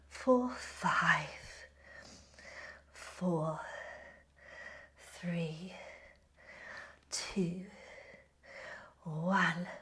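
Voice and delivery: soft breathy count, low and slow; whispered countdown. Acted. Counting down the hold.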